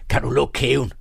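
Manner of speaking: Jutlandic dialect. A narrator's reading. Young Carlsen tells Egholm off, lightly Jutlandic dialect. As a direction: snap it with a touch of Jutland dialect. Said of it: "sagde han jysk".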